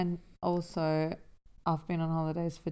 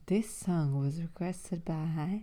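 radio DJ voice; 4 dB quieter, slower than usual. Retold or imitated. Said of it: "Yeah, exactly. That's what it sounds like".

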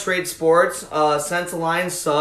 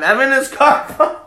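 higher, slow, half-laughing announcement; mock plug; 7 semitones higher, 4 dB louder, slower than usual. Host grudgingly plugging an account once more, mock plug. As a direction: stretch out the handle like a joke advert. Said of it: "I'll plug him one more time".

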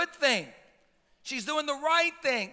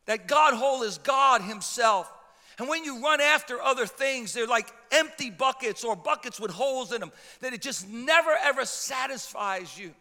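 loud, emphatic sermon delivery; driving pulpit emphasis; forceful preaching; 6 dB louder than usual. Real, not acted. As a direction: preach it out, punching the key words.

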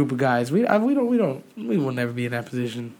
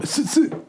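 short laugh; 11 semitones higher than usual. Real, not acted. Laughs at own point.

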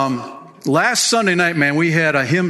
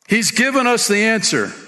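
mild excitement; 8 semitones higher than usual. Retold or imitated. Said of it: "she said excitedly".

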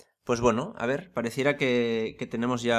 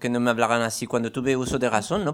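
put-on French accent; 4 dB louder than usual. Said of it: "con este acento extraño".

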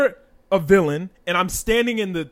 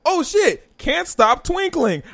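mock dread; 7 semitones higher, slower than usual. Acting mock dread at silly name.

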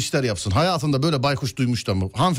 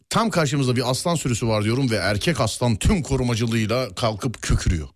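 tour guide voice; 6 semitones lower than usual. Shown as a demonstration. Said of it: "Bir dakika, şimdi durun".

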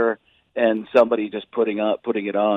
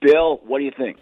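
Jim Rome. Acted. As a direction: announce it in emphatic, measured chunks. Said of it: "you could make fun of Jim Rome".

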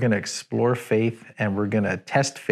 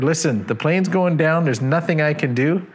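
raised, urgent pilot's call to the passengers, higher; mock shout; 4 semitones higher than usual. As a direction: pilot half-shouting goodbye as he bails out. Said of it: "shouts out to everybody on board".

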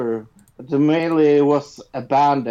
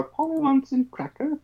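parrot voice; 10 semitones higher, 4 dB quieter, faster than usual. Retold or imitated. Imitating a parrot's squawk.

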